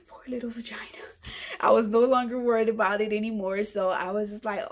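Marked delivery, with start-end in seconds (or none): 0.1-0.8 mock pity. Real, not acted. Pitying her own body after sigh.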